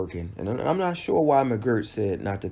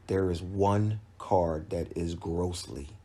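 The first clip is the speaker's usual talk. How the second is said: slow, deliberate weight on "grossly"; emphasis on GROSSLY; 3 semitones lower, slower than usual. Real, not acted. Commentator faulting one judge's scorecard, deliberate emphasis on "grossly". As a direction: lean on "grossly" and let it hang. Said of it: "emphasis on the word grossly".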